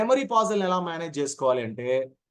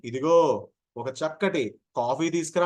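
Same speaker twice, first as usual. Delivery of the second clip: gentle slow request; 2 semitones lower, slower than usual. Shown as a demonstration. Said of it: "అని మెల్లగా చెప్పం కదా".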